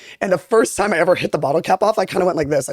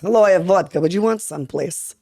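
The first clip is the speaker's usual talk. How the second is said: put-on Russian accent. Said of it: "Except I don't know if, it's, like, you know, mixed in".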